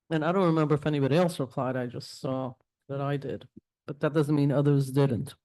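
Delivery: chewing while talking; talking around a mouthful of candy; mouth full. Real, not acted. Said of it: "you can hear me chewing on the, um, candy".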